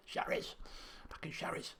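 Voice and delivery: Cherise and Back in Cherise whispered; whispered twang. Shown as a demonstration. Gamer playfully whispering the town name Cherise. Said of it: "gotta say it with that twang".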